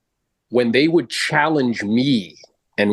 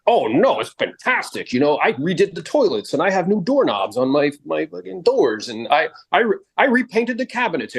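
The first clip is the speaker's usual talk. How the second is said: hint of an insistent homeowner, pitched up; lightly voiced defensive seller; 6 semitones higher than usual. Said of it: "Michael's gonna be like".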